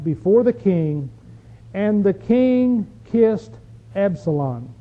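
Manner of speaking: measured Bible reading with deliberate pauses; preacher reading the verse aloud; scripture reading. Acted. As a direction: read the verse out to a congregation, slowing on key phrases. Reads the last verse aloud.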